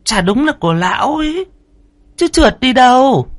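high, fretful woman; third wife voice. A narrator's reading. Third wife counting the months, worried.

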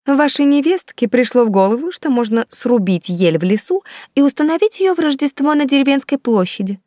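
scandalised lady explaining; indignant baroness. A narrator's reading. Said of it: "возмущённо тряся кудряшками". (возмущённая баронесса, голос выше)

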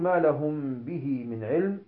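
slow verse with به said as bihee; ما لهم به من علم, joining through a long i in به; linked recitation. Shown as a demonstration. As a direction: recite on without stopping at به. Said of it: "فلما نقول".

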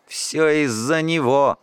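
ordinary delivery, nothing marked

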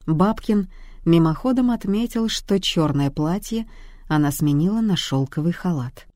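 ordinary delivery

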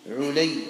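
علي said as 'ulayy; short "u", then "ayy" in علي; diminutive form. Shown as a demonstration. Teacher reading the narrator's name, علي as diminutive 'ulayy. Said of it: "بالتصغير على الصحيح".

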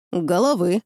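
calm, unbothered, schoolmasterly; unflappable teacher's indifference. A narrator's reading. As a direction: state it with bored teacherly calm. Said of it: "Невозмутимо, с лёгким оттенком педагогического безразличия".

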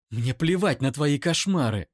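high, loud, near-screaming rage; screaming accusation at the brother's defender; furious scream. Acted. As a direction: hurls every word at him. Eira screams.

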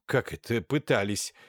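ordinary delivery, nothing marked

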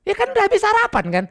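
fast, high whiny complaint; a complaining believer, whiny and quick; mock complaint. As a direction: whine it quickly like a doubter.

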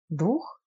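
queried back with a rising tune; questioning echo. A narrator's reading. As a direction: ask it back, lifting the end. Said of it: "переспросил Евгений". (переспрос с вопросительной интонацией)

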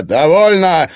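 loud, high, furious command; angry shout. A narrator's reading. Egor silencing the quarrelling women, angry shout. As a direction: cut them off with a shout. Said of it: "зло крикнул Егор".

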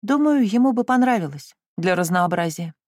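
high, unabashed cheek; brazen retort. Acted. Valancy answering her mother brazenly, unashamed. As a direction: toss it back shamelessly. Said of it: "бесстыдно отозвалась Вэланси".

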